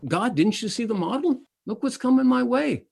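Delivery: high, fretful complaint to God; a worrier fretting at God, mock alarm; mock panicky prayer. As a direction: whine it up to God like a worried believer.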